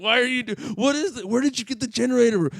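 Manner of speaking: high, loud imitation of disbelief; retold baffled questioning. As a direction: act out her incredulous questions. Baffled friend questions the visitor.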